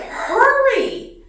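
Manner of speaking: high, loud acted shriek; hammed-up frantic call; urgent yell. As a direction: yell for him to hurry, panicked. Urging husband during snake panic.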